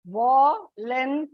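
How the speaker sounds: Volunteer said slowly, TEER held and stressed; vol-un-TEER, slow, lean on the end; stress on last syllable. Shown as a demonstration. Teacher slowly modelling volunteer for the children, TEER stressed. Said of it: "Last syllable".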